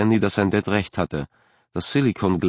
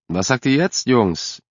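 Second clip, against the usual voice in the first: calling out; 5 semitones higher, slower than usual. Acted. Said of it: "rief Dad".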